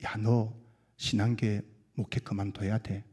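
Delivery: low, hushed tempter's voice; quiet, insinuating devil; devil's whispering. Acted. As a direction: murmur it softly, like a tempter in the ear. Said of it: "속삭입니다".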